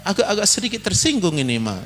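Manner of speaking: husband's grumble through laughter; husband teasing wife with laughter; laughing mock complaint.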